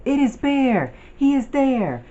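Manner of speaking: high, loud excited squawk; shrieky bird cry of discovery. A narrator's reading. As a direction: squawk it out like birds spotting someone. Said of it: "squawk from the sky".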